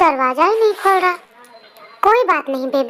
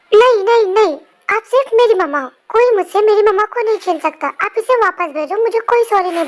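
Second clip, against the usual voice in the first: put-on angry child protest; 2 semitones higher than usual. Child refuses to apologise to mother.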